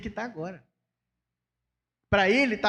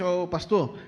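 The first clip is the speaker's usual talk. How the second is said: cheerful bald friend; 4 dB louder than usual. Retold or imitated. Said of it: "O Carlos vira pra mim e fala assim".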